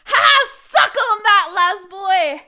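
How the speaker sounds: cackling victory gloat; gloating taunt. Real, not acted. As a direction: rub it in.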